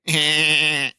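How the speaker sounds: lightly done Family Guy laugh; a hint of Peter Griffin. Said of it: "That was my Peter Griffin".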